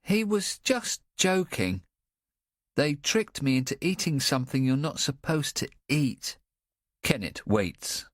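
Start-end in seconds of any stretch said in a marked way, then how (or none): 0.0-6.4 put-on high, eager young boy; childlike boy voice. A narrator's reading. Boy listing his lost things, in a high childlike voice. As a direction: voice the boy Nicky, lifted and young. Nicky explaining.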